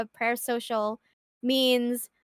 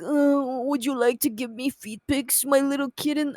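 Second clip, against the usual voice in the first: creepy voice changer. Pretend. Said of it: "using a voice changer".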